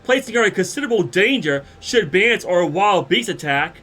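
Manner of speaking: a lightly voiced noble standing his ground; indignant gentleman. Godbert rebuking Dorota for endangering Maria, stern.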